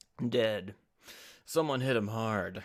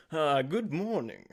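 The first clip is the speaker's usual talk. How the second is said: first try at Apollo; 4 semitones higher, 4 dB louder than usual. Acted. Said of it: "I don't know what I'm gonna do for Apollo's voice".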